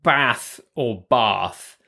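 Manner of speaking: slow Bath with short a, then with long a; two ways of Bath. Shown as a demonstration. British guest contrasting northern and southern vowels, slow. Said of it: "so you'd say".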